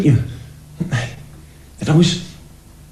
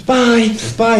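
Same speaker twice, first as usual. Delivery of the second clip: short, slightly raised farewell; casual goodbye; 5 semitones higher than usual. Retold or imitated. Grandson waving off his grandparents, casual farewell. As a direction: toss it off lightly while waving. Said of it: "I'd say goodbye".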